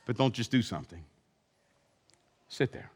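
whisper-close calm. Shown as a demonstration. Preacher urges listeners to stop, very soft and still. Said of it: "repeats the assignment softly".

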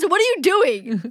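imitating exasperated mom. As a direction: play the baffled mother. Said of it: "my mom goes".

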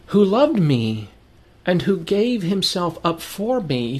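softened, grateful reread; tender, heartfelt. Acted. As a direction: linger on it as a personal gift. Verse repeated, slowed, moved.

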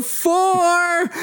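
high, drawn-out warning call. Acted. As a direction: call a long golfer's "fore". Calls warning across the course.

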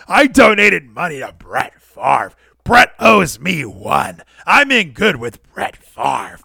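slow, drawn-out smug booster; mock boastful, spelled out slowly; lightly voiced smug donor; Nancy New voice. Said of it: "me, Nancy New".

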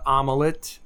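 "omelet" in three syllables, om-uh-lit; odd omelet pronunciation. Real, not acted. Cohost listing egg styles, "omelet" as om-uh-lit. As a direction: add a middle "uh" to "omelet". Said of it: "A what?".

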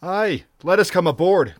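high, loud, insistent plea; clamor to be let on. A narrator's reading. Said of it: "clamored a lean Shemite".

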